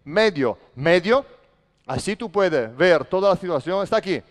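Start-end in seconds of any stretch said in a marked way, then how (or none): 0.0-1.2 firm, repeated defensive call; demonstrated court shout. Shown as a demonstration. Coach showing players how to talk on defence, calling out. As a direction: call it out for teammates to hear. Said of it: "Hay que hablar gritando".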